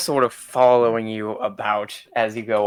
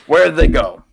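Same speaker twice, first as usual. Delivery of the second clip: shopkeeper voice; 4 semitones higher, 5 dB louder than usual. Acted.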